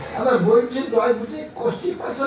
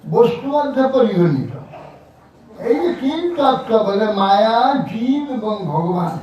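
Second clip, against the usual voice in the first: measured recitation in a slightly raised voice; deliberate, declamatory reading of a religious text; formal scripture reading; 3 semitones higher than usual. Acted. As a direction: read out the doctrine phrase by phrase, with pauses. Reads scripture text aloud.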